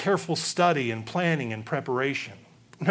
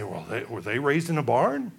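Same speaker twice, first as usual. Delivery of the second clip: mock offended gossip. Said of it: "we get upset and we get offended and say".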